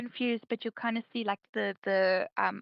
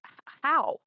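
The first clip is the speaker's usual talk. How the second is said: stuttering; 2 semitones higher than usual. Acted. Oren stammering to Akari after the vision, stuttering worried. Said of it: "kind of, like, stuttering".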